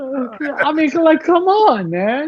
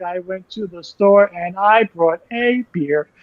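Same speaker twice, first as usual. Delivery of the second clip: flat monotone imitation; 3 semitones lower than usual. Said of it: "I have some inflection in my tone".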